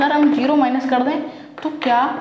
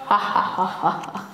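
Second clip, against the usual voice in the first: forced demo laugh; 5 semitones lower, 5 dB quieter, slower than usual. Shown as a demonstration. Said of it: "हंसो भाई, हंसो थोड़ा सा".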